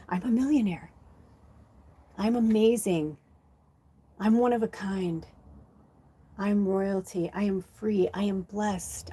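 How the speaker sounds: soft, even self-affirmations. Shown as a demonstration. Guide lists affirmations for viewers, softly. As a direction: recite affirmations gently to yourself. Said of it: "stay in the I ams".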